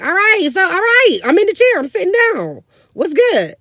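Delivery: loud, high-pitched giving in; exasperated compliance. Retold or imitated. Mom giving in to her bossy sister, exasperated high shout. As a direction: give in noisily, imitating mom.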